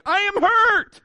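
high mock wail of pain; hurt cry. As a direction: cry out like an injured kid. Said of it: "because of my cry was".

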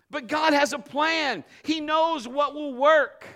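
slow, loud deliberate declaration; slow, weighty proclamation; emphatic preaching. Real, not acted. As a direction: lean on every word.

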